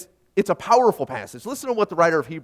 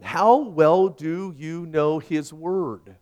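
each word drawn out slowly, landing on "How"; slow pointed question; much slower than usual. Shown as a demonstration. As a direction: ask it slowly and weightily, letting "How well" hang. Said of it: "Let me ask you something".

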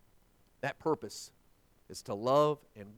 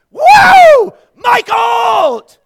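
very high, very loud shouted cheer; fan cheering; 26 dB louder, much slower than usual. Retold or imitated. Lone fan standing up at the ballgame, wild cheering. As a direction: whoop and holler for your favorite player. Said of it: "I'd be the only one like".

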